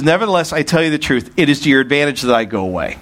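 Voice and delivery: fast run through the verse; quick re-read. Shown as a demonstration. Preacher quickly rereads verse seven to the congregation, fast. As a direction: rattle it off to get back to it. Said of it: "Back to seven".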